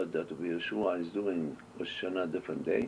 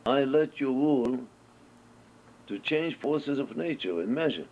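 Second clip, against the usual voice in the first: voice of God; 5 semitones higher than usual. Retold or imitated. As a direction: announce it like a solemn divine decree. God speaks to the sages.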